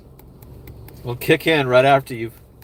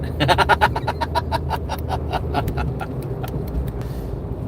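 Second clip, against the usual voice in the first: breathy laugh pitched up, trailing on; wheezy laugh; 6 semitones higher, 3 dB quieter than usual. Real, not acted. Streamer amused that son begs to differ, wheezy laugh. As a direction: crack up into a long wheeze.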